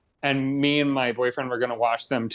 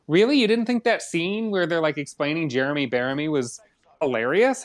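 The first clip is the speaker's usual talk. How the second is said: retold disbelief; 2 semitones higher than usual. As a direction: replay your shock that he didn't laugh.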